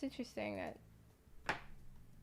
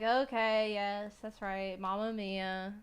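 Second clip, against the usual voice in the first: mock Italian accent; 6 dB louder, slower than usual.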